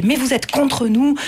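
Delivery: lightly acted reproach, drawn out; retold accusation. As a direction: voice an aggrieved pupil. Acted accusation in polarised class debate.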